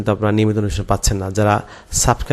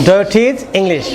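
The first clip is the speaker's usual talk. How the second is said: slow model sentence; 10 semitones higher, 4 dB louder, much slower than usual. Shown as a demonstration. Teacher models English answer.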